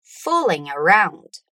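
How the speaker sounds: slowly, chunk by chunk; slow drill. Shown as a demonstration. Teacher drills students, slow chunks. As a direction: model it slowly for repeating. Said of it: "Repeat again".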